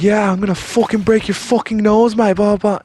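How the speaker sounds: high, loud mock ranting; mimicked angry threat. Celebrity threatening the guard, mimicked angry rant. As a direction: mimic a hothead threatening a fight.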